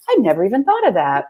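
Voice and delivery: said through a laugh, lifted a little; laughing quote. Retold or imitated. She recalls an idea she had never thought of, laughing. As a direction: laugh your way through your own surprise.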